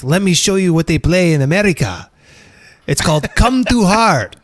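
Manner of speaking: lightly put-on Mexican accent; a weak hint of Mexican accent. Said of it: "worst Mexican accent I've ever done".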